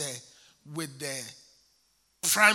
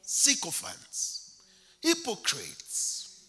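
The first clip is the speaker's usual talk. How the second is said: slow emphasis; 3 semitones higher, much slower than usual. Real, not acted. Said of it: "a lot of sycophants".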